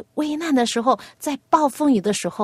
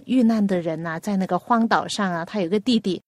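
usual speaking voice

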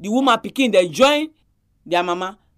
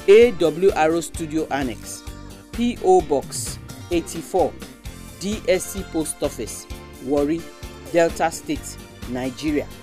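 slow dictation; 3 semitones lower than usual. Shown as a demonstration. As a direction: address read slowly for listeners. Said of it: "I go take am again".

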